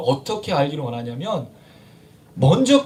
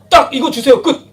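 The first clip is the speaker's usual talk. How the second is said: blunt mock request, punched out loud; cool and curt; 4 semitones higher, 7 dB louder than usual. Preacher parodies a cool person praying, curt. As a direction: bark out a no-nonsense prayer, then cut it off. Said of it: "저는 쿨한 사람이에요. 뒤끝이 없어요".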